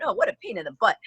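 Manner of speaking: God voice, high and put-upon; annoyed God. Retold or imitated. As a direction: sigh it out like an irritated deity. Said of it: "God's probably going".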